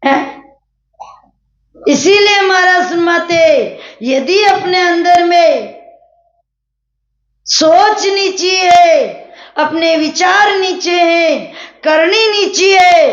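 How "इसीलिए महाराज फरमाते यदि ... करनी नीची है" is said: raised, higher preaching voice, slowing on the key words; preaching at full force. Acted. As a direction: hammer home the point to the congregation. Preacher builds to emphasis. (ऊँची, ज़ोरदार प्रवचन की आवाज़)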